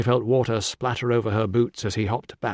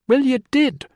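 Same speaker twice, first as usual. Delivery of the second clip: high, louder gasp of pain; 14 semitones higher, 6 dB louder than usual. A narrator's reading. Injured man gasping as she tightens the bandage. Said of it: "he gasped".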